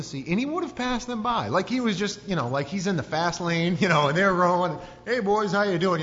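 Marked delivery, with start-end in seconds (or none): 5.1-6.0 high, loud mock-casual call; breezy hail. Passer-by hails the rowers from the fast lane, calling. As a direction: call out as you breeze past them.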